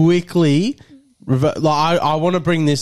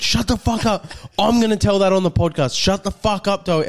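higher-pitched retold outburst; imitated angry snap; 5 semitones higher than usual. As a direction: mimic a mate angrily shutting him up. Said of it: "Maz is getting fully angry".

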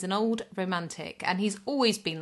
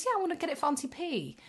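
high, quick imitation of a child; small boy; 9 semitones higher, faster than usual. Boy telling parents about his gift, high child voice. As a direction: pipe up like an eager little boy. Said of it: "he goes".

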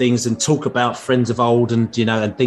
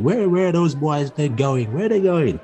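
lightly voiced puzzled dad, pitched higher; retold dad calling out; 4 semitones higher than usual. A Brentford fan imitating his friend's dad wondering where the boys went, mild higher call. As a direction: mimic an old neighbour calling after the boys. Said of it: "I can't do his accent".

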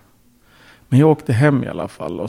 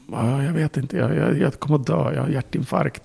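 panicked wife; 4 semitones higher than usual. Retold or imitated. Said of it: "full panik".

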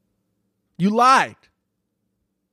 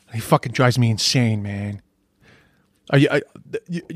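ordinary delivery

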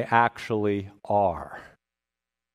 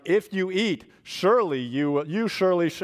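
playful Yoda-style word order, a touch higher; mock Yoda, lightly voiced; hint of Yoda, jumbled emphatic phrasing; Yoda talk; 5 semitones higher than usual. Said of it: "it's like Yoda talk".

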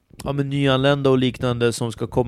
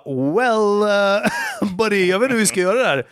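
higher, fast, half-laughing helpless tone; mock exasperated; 6 semitones higher than usual. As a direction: play up the overwhelmed instructor. Instructor retells his own dismay.

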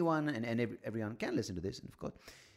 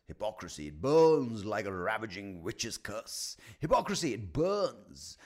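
slow, grand declaring with a touch of loudness; hammed-up poet; slower than usual. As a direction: roll it out like a ham tragedian. Hammed-up poetic refrain.

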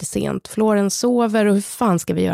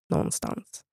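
whispered; 9 dB quieter than usual. Real, not acted. Trailing thought of escape.

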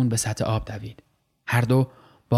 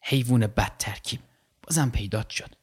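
softer, clenched-teeth grumble; growled through teeth; 5 dB quieter than usual. Acted. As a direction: grind it out at the shark. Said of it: "دندانها را رو هم فشرد و قرید".

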